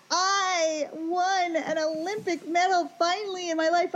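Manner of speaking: high, slow, drawn-out victory cry; mock medal-winner's triumph. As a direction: proclaim a long-awaited win, hammed-up. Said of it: "But I'll be like".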